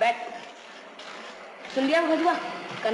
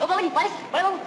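raised, higher hawker's call to a passer-by; calling out to customers; 6 semitones higher, much faster than usual. Acted. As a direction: call out to sell a polish. Shoeshine boy calling customers.

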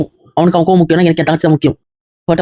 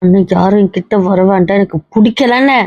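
mildly yelled rejection; upset yelling. Acted. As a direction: start firm, lift into a cry of refusal. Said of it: "எது கத்துற?".

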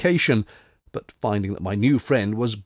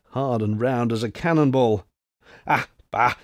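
put-on old French soldier; 2 semitones higher than usual. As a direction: play a jolly old grenadier toasting luck. Old French soldier boasting at table.

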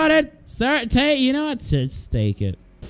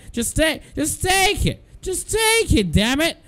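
higher, rising into an exasperated shout; frustrated outburst; 6 semitones higher than usual. Real, not acted. Shopkeeper giving away free guitar strings, exasperated yell. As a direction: throw it at him, fed up.

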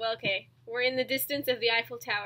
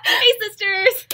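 high, loud, drawn-out catchphrase; slow, over-the-top YouTuber greeting; mock YouTuber greeting; 7 semitones higher, 11 dB louder, much slower than usual. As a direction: sing out a parody influencer hello.

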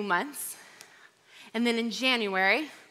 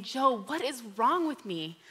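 retold sobbing plea; 5 semitones higher than usual. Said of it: "And I started sobbing".

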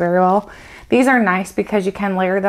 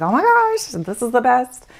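sudden much higher squeal of fake delight; mock gushing; 6 semitones higher than usual. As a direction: gush like a thrilled fan, hammed up. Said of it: "anything from the brand that I'm like".

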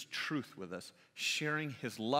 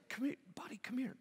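higher, softer coaxing, partly whispered; 10 semitones higher, 3 dB quieter, faster than usual. Retold or imitated. Dad coaxing his embarrassed son in the pew, soft and high. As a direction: coax a sulking child gently. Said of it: "He's like".

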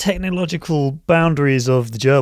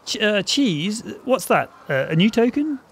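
higher, eager crypto bro; degenerate DeFi guy; 5 semitones higher than usual. Acted. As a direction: play the keen crypto newbie. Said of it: "Who's gonna be the degenerate DeFi guy?".

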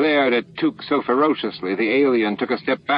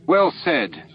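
approving; 7 semitones higher than usual. A narrator's reading. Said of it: "Torque approved".

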